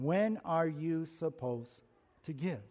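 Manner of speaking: "when are you supposed to give?" drawn out slowly, each word weighed; slow, deliberate. Shown as a demonstration. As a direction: pose the question slowly. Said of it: "When, question".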